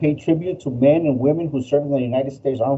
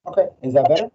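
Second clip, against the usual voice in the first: in a tunnel; faster than usual. Real, not acted. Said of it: "you sound like you're in a tunnel".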